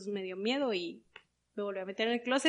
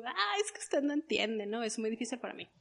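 retold tearful. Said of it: "yo así en lágrimas".

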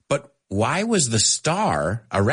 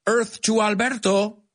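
wife calling out; 11 semitones higher than usual. Retold or imitated. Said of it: "And she's like".

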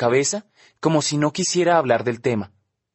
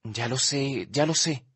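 much softer, soothing; reassuring; 6 dB quieter, slower than usual. Acted. The speaker calming crying Olivia, soft and soothing. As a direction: hush her gently. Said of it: "digo tranquilizándola".

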